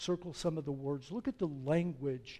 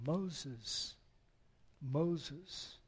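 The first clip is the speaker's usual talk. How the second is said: tender call; 4 dB quieter than usual. Acted. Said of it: "so filled with love".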